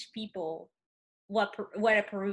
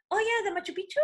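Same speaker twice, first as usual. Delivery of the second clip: imitating people; 9 semitones higher, faster than usual. Everybody's clichéd question voiced.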